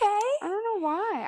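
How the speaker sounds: tearful. Real, not acted. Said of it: "I really am emotional".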